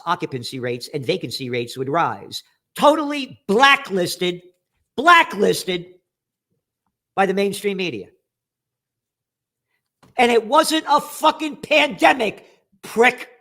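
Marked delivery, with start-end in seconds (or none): 2.8-8.1 indignant. Real, not acted. Complaining of being ignored. 10.1-13.3 higher and louder, slow angry yell; angry shout at the journalist; furious shout. Real, not acted. Insulting the journalist.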